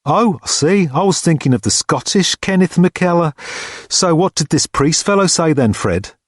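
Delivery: high-pitched porter, mildly sceptical; porter Bill. A narrator's reading. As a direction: concede and move on, pitched high.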